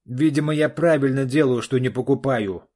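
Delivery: громкий отцовский крик; сорвись на крик на дочь; срыв на крик. Acted. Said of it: "сорвался Олег на крик". (отец кричит на дочь, громко и зло)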